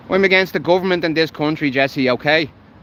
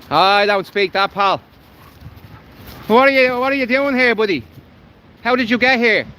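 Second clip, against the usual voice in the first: raised interrogating voice; 5 semitones higher than usual. Real, not acted. Confronting a man by the canal, raised interrogating voice. Keeps questioning the stranger.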